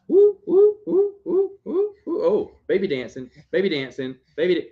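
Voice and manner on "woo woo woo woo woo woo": high, loud, playful woo woo; dad whooping to make his son dance; cheering woos. Real, not acted.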